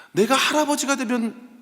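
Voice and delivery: imitating crying child. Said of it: "막 우는 거예요".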